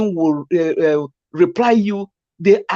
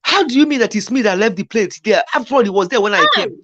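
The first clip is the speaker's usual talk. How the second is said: mock defensive retort. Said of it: "instead of him turning around and say".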